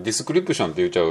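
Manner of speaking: description with extra vowels, de-su-ku-ri-pu-shon; Japanese-style description. Shown as a demonstration. Teacher showing how Japanese say description. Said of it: "日本人はdescriptionっていう時に".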